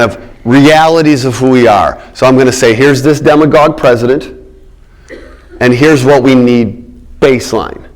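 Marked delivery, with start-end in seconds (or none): 5.6-7.9 slow down and lean hard on "baseline"; stress on baseline. Shown as a demonstration. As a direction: put the weight on "baseline" so it lands. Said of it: "I'm gonna emphasize that word baseline".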